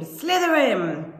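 high, drawn-out cry of the house name; screamed. A narrator's reading. Hat sorting Malfoy at first touch, screamed. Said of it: "when it screamed".

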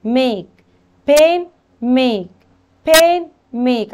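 slow, stretched "ay" in ميك and بين; long A demo. Shown as a demonstration. Teacher drilling long A for pupils, stretched out in ميك and بين. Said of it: "تدينا برضو إيه طويلة".

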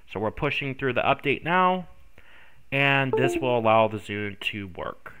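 stuffy, congested voice; blocked nose. Real, not acted. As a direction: speak through a blocked nose. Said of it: "I am congested once again".

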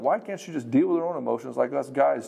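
mock-indignant objection, jumping high in pitch; indignant protest. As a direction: play a man complaining it's unfair. Voices the man's objection.

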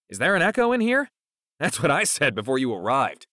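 high, loud indignant-style outburst; exclaiming. A narrator's reading. Excited exclamation at being echoed.

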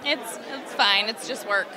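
slow, low-key pretend shrug; mock indifference. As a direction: play it unimpressed, dragging it out, then a laugh. Jokingly acts out being unimpressed.

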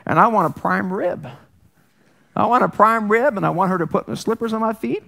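lightly voiced entitled husband; mock griping, stammering with indignation; complaining husband. Husband griping to Jesus about his wife, mock indignation.

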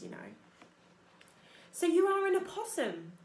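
a proud stage performer of a possum; theatrical opossum. Acted. Opossum voice across dialogue.

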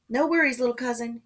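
called back smiling. A narrator's reading. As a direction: reassure with a smile, calling over a distance. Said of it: "called back with a smile".

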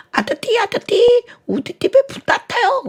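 put-on a tongue-tied child calling out, high and loud; lisping little kid. A tongue-tied child calls the fire station, high lisping cry. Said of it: "이 아이가 혀가 짧아".

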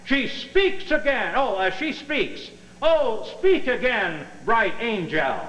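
slow, swooning Shakespeare recital; hammy Romeo. Acted. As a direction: sigh the lines like a lovestruck ham. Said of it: "this is a rehearsal now for Romeo and Juliet".

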